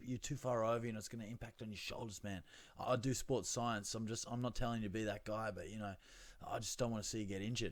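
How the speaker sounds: put-on soft American accent, coaching tone; a friendly American gym coach. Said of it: "I'm just giving him an American accent for fun".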